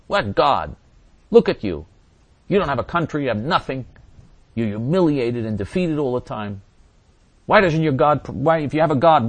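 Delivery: mildly acted taunting challenge; imitated mocking. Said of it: "to be able to mock and ridicule".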